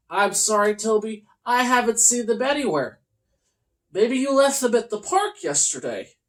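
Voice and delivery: calm kindly character voice. Acted. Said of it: "Cassandra shrugged and said".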